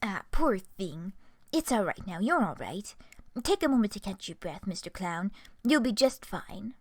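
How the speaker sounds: lightly voiced gentle friend calming a sobbing clown; soothing Calliope. Calliope hushing the crying clown, gently comforting.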